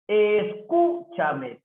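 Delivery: "Escúchame" slowed right down, CÚ held high; esdrújula stress. Shown as a demonstration. Teacher showing an esdrújula, "Escúchame" slow with stressed CÚ. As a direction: lean long on CÚ in "Escúchame". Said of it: "es esdrújula".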